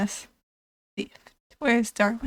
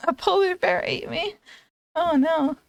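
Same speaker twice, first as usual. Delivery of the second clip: higher-pitched, laughing disbelief; amused dismay; 6 semitones higher than usual. Real, not acted. Streamer reading out an absurd death, laughing in dismay. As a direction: read it out while breaking into a laugh.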